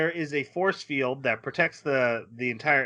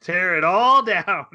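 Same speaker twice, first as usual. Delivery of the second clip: mock fury; 3 semitones higher, 4 dB louder than usual. He snaps after she cries.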